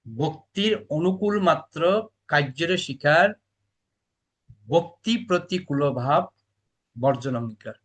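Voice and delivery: slow measured recitation of the verse. Acted. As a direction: chant the lines slowly, word by word. (ধীরে ধীরে শ্লোক আবৃত্তি)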